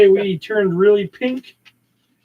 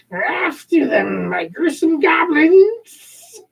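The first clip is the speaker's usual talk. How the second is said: villain voice; 6 semitones higher, slower than usual. Acted. Catra voiced in read-along.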